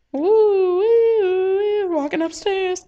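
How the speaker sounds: wheedling Mayuri. Acted. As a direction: coax him sweetly for a coin.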